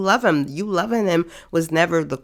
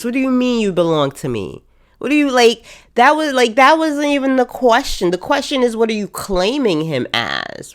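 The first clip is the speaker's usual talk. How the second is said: raised, incredulous rant; exasperated outburst; 7 semitones higher than usual. Real, not acted. Fed-up viewer ranting at the screen, exasperated. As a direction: throw up your hands at the show. Mocking the show's line.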